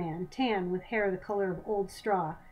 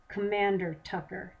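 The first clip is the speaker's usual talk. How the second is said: through clenched teeth. Acted. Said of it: "from between clenched teeth".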